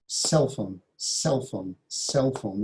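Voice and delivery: "Cell phone" with CELL stressed and phone lighter; stress on first syllable. Shown as a demonstration. Teacher modelling word stress for students, CELL stressed in "Cell phone". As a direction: lean on "Cell" each time, low-pitched. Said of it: "with the stress on the first syllable".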